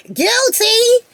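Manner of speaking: cheeky loud guilty plea; bigger mock confession. Real, not acted. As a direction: shout it with hands up. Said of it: "Put my hand up".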